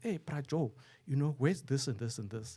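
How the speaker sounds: loud, high-pitched shouting. Retelling how a passing nurse called out: imitating a nurse shouting. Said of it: "and then she shouts".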